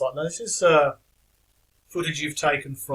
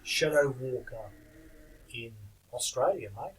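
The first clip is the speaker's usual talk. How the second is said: a deliberately bad Aussie accent; terrible Australian accent; 4 dB quieter than usual. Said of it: "terrible Australian accent".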